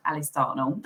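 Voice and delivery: casual Southern English pronunciation, amused; common Southern English accent. Shown as a demonstration. Guest showing her own name, common Southern English accent. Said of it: "Southern accent".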